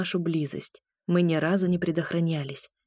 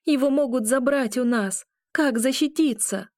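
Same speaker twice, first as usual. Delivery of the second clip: panicked; 7 semitones higher than usual. A narrator's reading. Panicked tirade.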